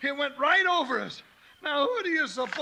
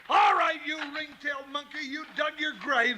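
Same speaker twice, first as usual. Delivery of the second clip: shouted insult at the villain; angry challenge; 2 semitones higher than usual. Acted. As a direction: bark it at the outlaw. Confronting villain.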